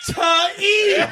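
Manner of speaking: high, loud hammed-up shout of "Taib!"; imitating a doctor yelling a name; mock shout. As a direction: call out the name like a frantic doctor. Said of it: "And then he goes".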